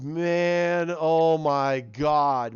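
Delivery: moved. Real, not acted. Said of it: "it brought a tear to my eye".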